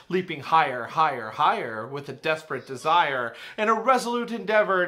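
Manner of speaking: loud dramatic reading of terror; alarmed poem recital. Acted. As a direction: ring out the alarm in panic. Recites the alarm-bells stanza.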